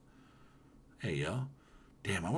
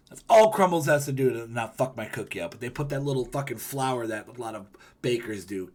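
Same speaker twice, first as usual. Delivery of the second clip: mock anger; 2 semitones higher, 4 dB louder than usual. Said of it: "That's how angry I would get".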